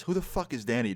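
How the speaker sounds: lightly imitated friend asking outright; friend speaking aloud. Friend answers the man confronting him, said aloud. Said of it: "that's what my friend says".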